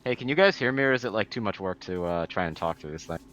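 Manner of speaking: muffled, as if through a hand. Real, not acted. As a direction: talk through a covered mouth, muffled. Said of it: "we can hear the muffled voice coming through".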